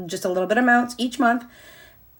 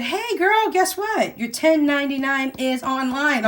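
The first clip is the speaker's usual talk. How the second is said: put-on much higher, chirpy girlfriend voice; Google's cheery announcement; 5 semitones higher than usual. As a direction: play Google as a bubbly friend with good news. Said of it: "Google came in and said".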